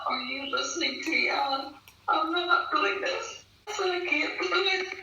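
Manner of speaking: plead, upset and close to tears; distressed pleading. Retold or imitated. Retelling a tearful confrontation with Alan.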